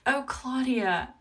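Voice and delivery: high, slow, drawn-out fond "oh"; touched, fond exclamation. Real, not acted. Crafter responding to a loyal viewer's praise, fondly touched. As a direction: draw it out, touched by the compliment.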